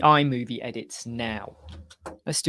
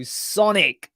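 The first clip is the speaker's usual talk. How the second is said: calling across the office, louder catchphrase; called-out catchphrase; 5 semitones higher, 5 dB louder than usual. Retold or imitated. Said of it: "I would go".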